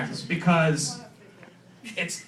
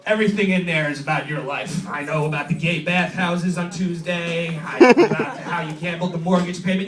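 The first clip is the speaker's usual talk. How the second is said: lightly lowered blackmail voice; psychotic cop dad; 3 semitones lower than usual. Acted. Cop dad blackmailing evaluator, mock menace.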